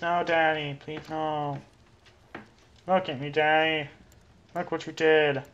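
a hint of a whiny kid begging Daddy; lightly voiced pleading child. Child begging Daddy over the broken game, lightly voiced pleading.

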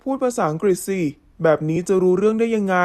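flatly irritated. Acted. Foreign man annoyed she won't speak English, irritated. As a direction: keep it level but plainly fed up. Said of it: "น้ำเสียงทุ้มเรียบหงุดหงิดเห็นได้ชัด".

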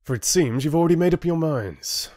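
high-pitched, bitter accusation; spitting anger. A narrator's reading. Rin accusing the decided council, spitting. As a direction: throw it at them bitterly. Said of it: "he spat".

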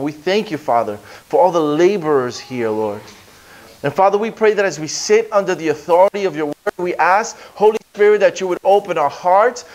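earnest pastoral prayer, rising in fervour; heartfelt congregational prayer. Acted. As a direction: pray over the church with growing conviction.

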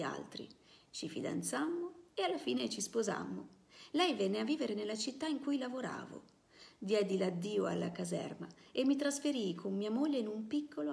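steady novel reading to a class; story narration. A narrator's reading. Teacher reading a novel to students, in a steady narrating voice. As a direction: read the memoir aloud, unhurried and clear.

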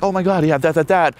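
high-pitched playful babble; imitated excitable fluff; joking around. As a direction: rattle it off as mock chit-chat. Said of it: "joking around, like".

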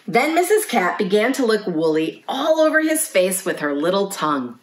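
lively picture-book narration; reading to children. A narrator's reading. Librarian reads a lamb's bedtime story to children, storytelling. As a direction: read a bedtime story to little listeners.

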